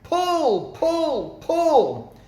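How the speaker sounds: frantic repeated call. A narrator's reading. Mugglewump drives everyone on the carpet, high frantic yells. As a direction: chant the order like a demon hopping about. Mugglewump hopping about like demon.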